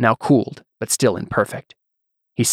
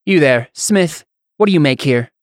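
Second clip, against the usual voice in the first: too loud; 4 semitones higher than usual. Acted. Nobleman calling to the smith, needlessly loud. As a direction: announce it as if across a square. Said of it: "a little too loudly".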